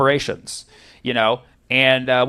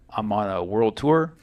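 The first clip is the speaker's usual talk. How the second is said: low, slow, subdued mock-celebrity answer; mildly annoyed star; 8 semitones lower, 7 dB quieter than usual. Drunk pop star answering an officer, quietly annoyed. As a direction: imitate a reluctant star, dragging it out quietly. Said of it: "he was even annoyed just saying that".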